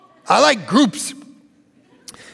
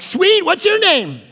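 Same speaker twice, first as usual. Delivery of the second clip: chuckling, high and chummy; laughing delight; 7 semitones higher, slower than usual. Retold or imitated. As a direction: laugh as you make a new friend. Extrovert chatting up telemarketer.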